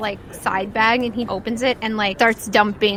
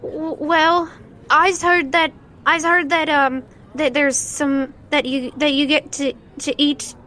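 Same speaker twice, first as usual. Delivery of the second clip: put-on hungry child; 5 semitones higher than usual. Child asks for food.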